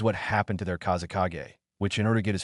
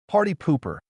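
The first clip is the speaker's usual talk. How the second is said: high, playful fox demon; teasing demon voice; 8 semitones higher than usual. Acted. Kyuubi teases Naruto.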